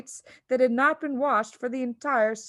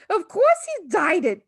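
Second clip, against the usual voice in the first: high, louder cry; 10 semitones higher, 8 dB louder than usual. A narrator's reading. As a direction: cry out in scorn. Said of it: "the mother cried".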